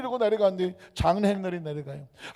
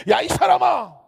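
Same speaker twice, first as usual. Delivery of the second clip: high, loud mock scolding; 호통치는 꾸짖음; 9 semitones higher, 9 dB louder, slower than usual. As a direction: scold him as if slapping his back. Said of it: "이 말을 하려면 등짝을 쳐야 되겠더라고요". (등짝 치듯 크게 호통치며)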